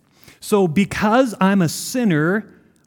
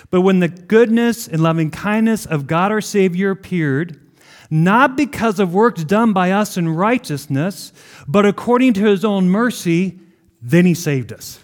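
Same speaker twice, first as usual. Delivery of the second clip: louder, building proclamation of the verse; scripture reading; 4 dB louder than usual. Acted. Preacher reading verse to congregation, ringing out. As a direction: read it out like a herald. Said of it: "You ready for this?".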